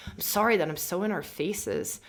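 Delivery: ordinary delivery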